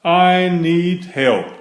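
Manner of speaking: put-on lively read-aloud for children; animated storybook reading; story narration. A narrator's reading. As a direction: read the picture book with bouncy expression. Reads picture book aloud.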